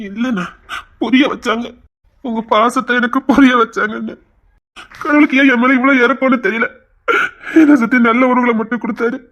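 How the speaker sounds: tearful, overwhelmed gratitude; crying like a child. Acted. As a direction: give thanks through tears. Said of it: "குழந்தை மாதிரி அழுதுகிட்டு இருக்கான்".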